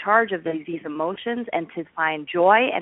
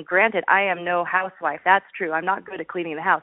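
normal talking voice

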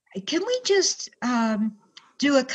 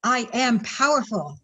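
booming motivational speech; 2 semitones higher than usual. Shown as a demonstration. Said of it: "repeat after me".

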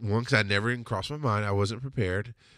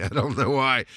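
normal talking voice

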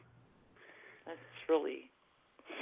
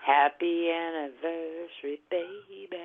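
romantic; 2 semitones higher, slower than usual. Acted. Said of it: "That was hot".

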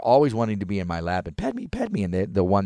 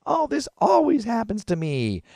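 high, slow whining wail; whiny self-pity; 3 dB louder than usual. Retold or imitated. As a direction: moan like it always happens. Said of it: "she's like".

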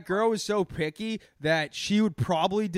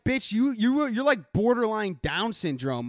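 mock scolding; 6 semitones higher than usual. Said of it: "And it's like".

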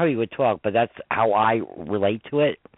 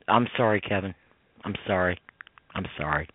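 tearful apology; 5 semitones lower, 4 dB quieter than usual. Retold or imitated. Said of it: "I see a tear in his eye".

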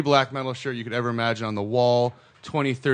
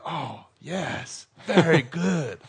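approving local; 6 semitones higher, much slower than usual. Retold or imitated. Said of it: "He's like".

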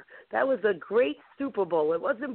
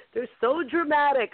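mock exasperated; 6 semitones higher than usual. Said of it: "I said".

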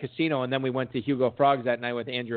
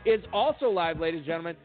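radio host outro; 2 semitones higher than usual. Acted. Host signing off the podcast, upbeat announcer read. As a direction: plug the show to the listeners.

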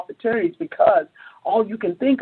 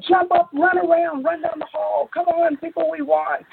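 high-pitched hype-up at normal volume; re-enacted cheerleading call; excited rallying; 10 semitones higher than usual. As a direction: whip the team into celebrating. Whipping staff into celebration.

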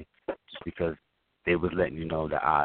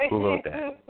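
laughing; slower than usual. Real, not acted. Amused at the poetic comment.

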